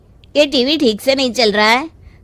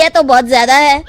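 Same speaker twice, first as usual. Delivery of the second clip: fast, tearful complaint; crying protest; faster than usual. Acted. Customer shocked by the two thousand rupee bill, fast and tearful. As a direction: blurt it out half sobbing.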